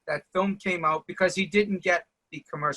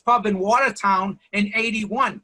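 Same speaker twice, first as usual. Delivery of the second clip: louder, higher comic grievance; mock indignant; 4 semitones higher, 4 dB louder than usual. Friend complaining he was never thanked: mock indignant whine. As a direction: play the wounded friend demanding credit.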